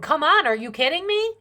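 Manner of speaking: can't believe what she's seeing; incredulous outcry. Real, not acted. Reading tarot for viewers, she cries out in disbelief.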